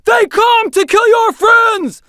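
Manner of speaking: slow, high, loud war chant; bellowed battle cry. A narrator's reading. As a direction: rouse the warriors to fury. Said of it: "bellowed Erlach".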